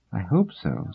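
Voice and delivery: skeptical, quiet reply; dubious. Acted. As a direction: say it with doubt. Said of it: "said Doris dubiously".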